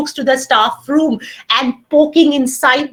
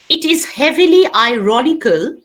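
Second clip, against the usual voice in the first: dictation pace. Shown as a demonstration. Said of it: "start writing".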